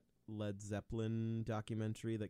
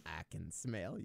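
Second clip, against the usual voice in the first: creepy voice; 3 semitones lower than usual. Acted. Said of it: "You can do it so much better".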